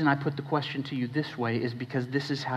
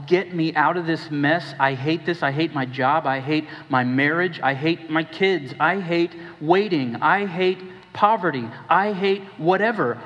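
each I hate pushes harder than the last; building frustration; 3 dB louder than usual. Acted. Voicing honest church complaint.

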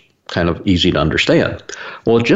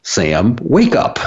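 higher, teasing nudge on hey and wake up; a hint of brother-in-law nudging the speaker to pay attention; mock wake-up call; 4 semitones higher, much slower than usual. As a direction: poke him awake, lightly imitating. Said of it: "It was just deliberate that says".

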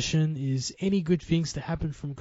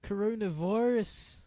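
higher, drawn-out celebrity impression; slow, pitched-up mimicry, badly faked; a rapper; 6 semitones higher, slower than usual. Shown as a demonstration. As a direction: stretch the word out in a shaky attempt at an impression. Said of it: "you wanna do" a rapper impression.

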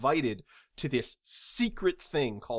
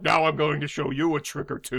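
lightly dubbed movie villain voice; hammy dubbed bad guy; stupid overdub voice; faster than usual. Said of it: "such a stupid overdub voice".

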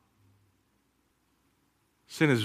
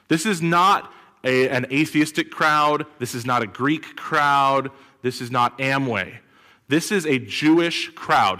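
slow, punchy, raised voice; emphatic preaching; 3 semitones higher, 3 dB louder, slower than usual. Real, not acted. Preacher stressing who the audience was, emphatic. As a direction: hammer each short line. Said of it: "preaching emphasis".

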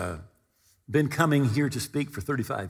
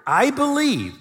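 pleading with tears; 2 semitones higher than usual. Acted. Father crying out to Jesus for his son, tearful plea. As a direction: beg the Lord through tears, slowly. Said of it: "cried out and said with tears".

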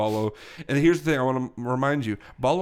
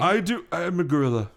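lightly voiced old English gentleman; older English accent; 5 semitones higher than usual. Gorilla correcting the detective, older English accent. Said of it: "starting with a older English accent".

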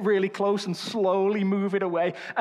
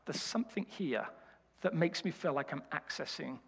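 hushed awe; 4 semitones lower, 10 dB quieter than usual. Pretend. Imagined listener feeling spiritual.

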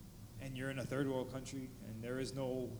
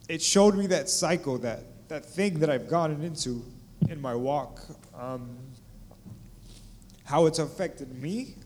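loud, raised and urgent, near preaching; impassioned testimony; 2 semitones higher, 11 dB louder than usual. Real, not acted. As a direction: pour it out to the crowd with full voice.

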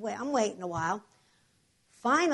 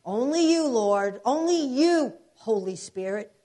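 mocking the pastor; 3 semitones higher, 5 dB louder, slower than usual. Wife mocking the pastor's prayer, hammed-up pious voice. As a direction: ham up the pastor's solemn prayer. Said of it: "The pastor kept saying".

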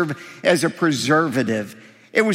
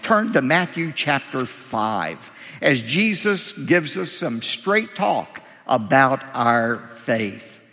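normal talking voice

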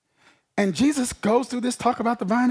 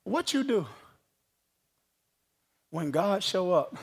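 hushed question; 7 semitones lower, 12 dB quieter than usual. Real, not acted. Tender rhetorical question.

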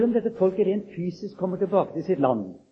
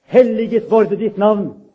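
loud, high, slow cry of praise; 5 semitones higher, 13 dB louder, slower than usual. Acted. Congregation answering God's promise, loud and slow. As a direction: call it out like the whole church answering. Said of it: "Og vi roper".

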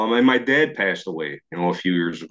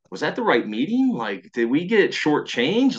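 higher, drawn-out puzzled questions; baffled disbelief; 4 semitones higher than usual. Retold or imitated. Buddies walking out of the meeting, baffled. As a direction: stretch the words in bewilderment.

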